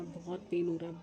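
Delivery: barely moving the mouth, in pain; talking through tooth pain. Real, not acted. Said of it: "कितना slow बोल रही हूँ मैं". (दांत के दर्द में धीरे धीरे बोलना)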